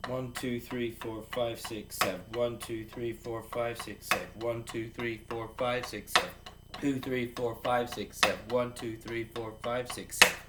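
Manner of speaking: steady slow count aloud. Shown as a demonstration. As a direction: count the strokes evenly as you play. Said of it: "We're counting this out slow".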